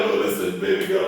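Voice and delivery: low, loud half-whispered charmer's line; mock smooth talker. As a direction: slide it in like a player. Smooth-talking line to a girl.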